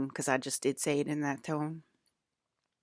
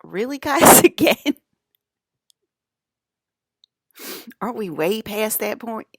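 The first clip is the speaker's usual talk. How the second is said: much higher, very loud mock exasperation; exasperated squeal; 6 semitones higher, 9 dB louder than usual. Telling Sebastian and Cap to stop arguing, squealing exasperation. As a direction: shriek it at the squabbling guys. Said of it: "I was like".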